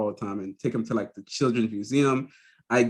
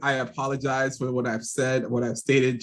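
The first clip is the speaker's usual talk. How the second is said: fake apology. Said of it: "the fake apology".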